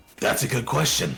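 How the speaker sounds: dark, foreboding, menacing tone. Answering where the magic comes from, hand on sword: ominous. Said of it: "ominously say".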